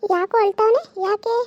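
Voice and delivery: loud call across the house. Acted. Mother calling out asking why the boy is crying, loud. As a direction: shout to ask what's wrong.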